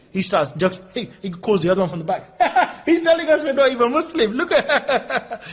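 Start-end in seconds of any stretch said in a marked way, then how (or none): 2.4-5.4 mocking laughter. Shop man laughs to colleague.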